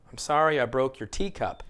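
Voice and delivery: "teacup" stressed on "tea", falling on "cup". Shown as a demonstration. Teacher repeating the model for learners, stress on TEA. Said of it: "Same thing with teacup".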